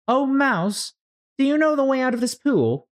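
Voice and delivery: put-on very high, polite girlish plea; a little girl asking sweetly; Alice voice. Alice politely asking the mouse, very high.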